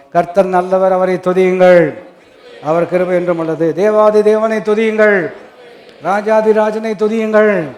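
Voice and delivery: loud, drawn-out call to praise; preaching exhortation. Real, not acted. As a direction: ring out each line, stretching the last word.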